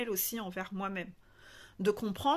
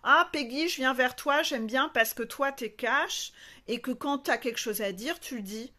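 imitated eager client; 3 semitones higher, 3 dB louder than usual. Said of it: "c'est ce que tu dis toujours en début de coaching".

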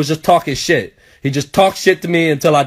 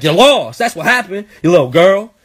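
taunting dad; 2 semitones higher, 3 dB louder than usual. Retold or imitated. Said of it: "my dad was like".

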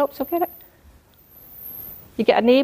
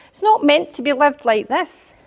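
raised preachy insistence; retold preaching; 5 semitones higher than usual. Telling relatives life isn't meant this way, preachy. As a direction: press the point like a sermon. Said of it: "I started to almost preach to them".

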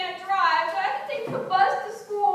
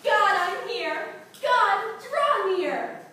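showy slow prayer; much slower than usual. Acted.

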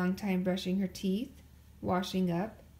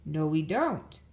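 lower, louder denial; arguing; 5 semitones lower, 5 dB louder, slower than usual. A narrator's reading. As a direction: argue back to Mama. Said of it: "argued Papa".

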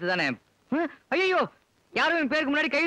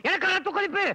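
outraged shout; 6 semitones higher than usual. Acted. Husband furiously echoing his wife's warning about blood pressure. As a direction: explode on the repeat. Husband repeats her words indignantly.

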